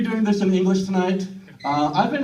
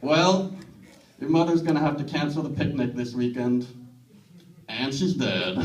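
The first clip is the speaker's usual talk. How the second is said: Texan parent; 4 semitones lower than usual. Retold or imitated. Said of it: "my parents are Texan".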